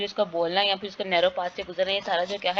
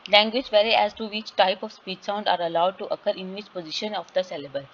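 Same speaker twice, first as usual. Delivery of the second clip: very slow, deliberate reading of English text; slow classroom reading aloud; slow textbook reading; much slower than usual. Acted. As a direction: read the definition out word by word. Reads the textbook line aloud.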